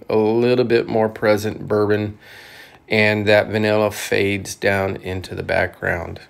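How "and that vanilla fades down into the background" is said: talking around a cigar; cigar in mouth. Real, not acted. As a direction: lips clamped on cigar. Seen 2: Cigar clearly clamped between lips throughout; held in hand before and after.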